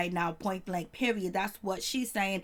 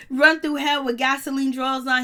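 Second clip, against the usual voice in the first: incredulous repeat; 3 semitones higher, 6 dB louder than usual. Real, not acted. Repeating his line in disbelief.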